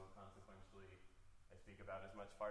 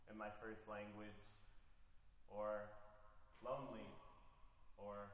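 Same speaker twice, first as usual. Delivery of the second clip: slow, measured reading with long pauses; poetry reading. Acted. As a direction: let each image land in the silence. Reads poem about Farsi.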